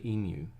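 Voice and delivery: emu with a y-glide, EE-myoo; correct local pronunciation. Shown as a demonstration. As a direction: stress the first syllable of emu, then myoo. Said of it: "people in the know say".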